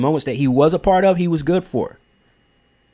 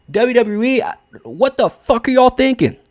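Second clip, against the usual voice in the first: higher-pitched, incredulous challenge; acted-out outrage, pitched up; exasperated outrage; 7 semitones higher than usual. Fan calling out WWE over Drew McIntyre, exasperated. Acts out his hypothetical outraged reaction.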